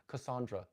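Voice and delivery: "Cassandra" with middle syllable "SAHN"; "Cassandra" with an open "ah" in the middle; broad-a pronunciation. Shown as a demonstration. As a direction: say "Cassandra" as kuh-SAHN-druh. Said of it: "maybe it's Cassandra 'cause it's with an O".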